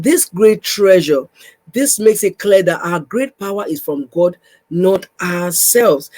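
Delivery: slow, deliberate Bible reading; measured, emphatic reading aloud; scripture reading. Acted. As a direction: read the verse out slowly, phrase by phrase.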